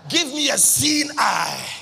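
preached cry. Acted. Preacher prays for sight aloud.

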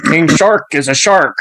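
cartoon shark catchphrase voice; put-on shark character voice; imitating King Shark. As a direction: say it like a simple shark. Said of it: "every time he walks around".

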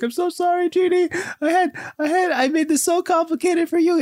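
very high mock-weepy voice; hammed-up teary confession, squeaking high; tearful apology. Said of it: "it's this whole tear, tear bending moment".

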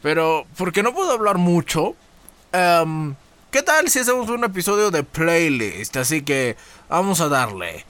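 talking with a swollen cheek; after wisdom teeth. Real, not acted. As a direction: speak around sore, swollen gums. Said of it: "tengo un lado inflamado porque me quitaron las muelas del juicio".

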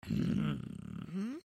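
high, very slow savouring voice; pleased creature voice. Acted. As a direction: taste each word slowly. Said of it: "said Mister Whiscockily".

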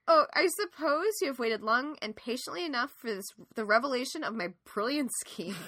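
grand, fast villain monologue; theatrical villain speech. Retold or imitated. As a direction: gloat like a stage villain revealing the scheme. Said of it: "my villain speech".

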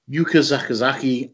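names said in a Liverpool accent; Scouse pronunciation of Yuka Sakazaki. Real, not acted. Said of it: "in my Scouse accent".

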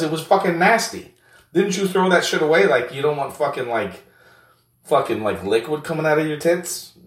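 squeaky high teasing friend, loud at the start; high-pitched mocking buddy. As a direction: play a rowdy buddy ribbing his pal in a voice well above your own. Second character keeps teasing.

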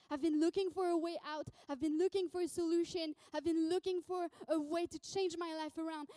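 insistent, desperate build of repeated phrases; urgent, heartfelt declaration; impassioned pleading. Acted. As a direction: plead as if this is your last way out. Beggar pleads that Jesus is his answer.

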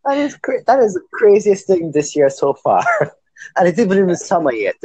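high-pitched, giggly disbelief; real amusement. Real, not acted. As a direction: talk through rising laughter. Laughing over a crazy story.

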